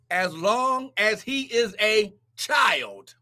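slow scripture reading. Real, not acted. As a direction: read each word slowly for weight.

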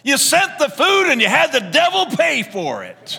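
high, loud, laughing triumph. Retold or imitated. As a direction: laugh through the punchline. Punchline to the atheist.

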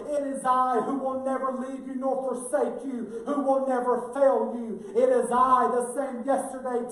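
rising revival preaching, swelling to a shout; preaching at full force. Real, not acted. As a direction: hammer each "It is I" home. Preaching climax.

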